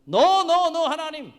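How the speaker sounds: high, loud defiant refusal; acted indignant outburst. Jonah talks back to God, high angry protest. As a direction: cut in with a shouted protest. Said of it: "하나님께 역정을 내면서".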